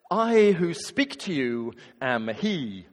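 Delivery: a hint of a stuffy professor; pompous formal. Jesus in the stiff translation, slow pompous declaration. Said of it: "who speaks like that".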